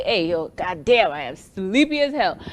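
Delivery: lightly voiced sleepy friend; a hint of Turi dragging in tired; loosely mimicking a tired husband; imitating Turi. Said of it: "the way Turi would come and tell me".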